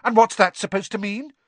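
loud, high, indignant; affronted question; offended challenge. Acted. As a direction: demand an explanation sharply. Hermione challenges Ron.

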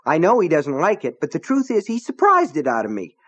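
rattled but still indignant; trembly, still angry. A narrator's reading. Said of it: "His voice was trembly".

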